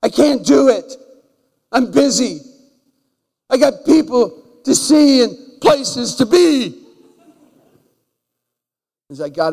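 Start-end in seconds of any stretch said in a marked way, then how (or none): 0.0-2.4 higher, louder hurried brush-off, too busy to go; exasperated busy pastor refusing the call; impatient brush-off. Retold or imitated. Pastor acting out his busy self. 3.5-6.8 higher, louder, drawn out excuse; exasperated busy pastor; busy brush-off. Retold or imitated. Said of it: "And I said".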